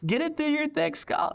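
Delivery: very high, slow mock scolding; exasperated prophet. Pastor voices Jeremiah scolding the thick-skulled leaders. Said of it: "He's like".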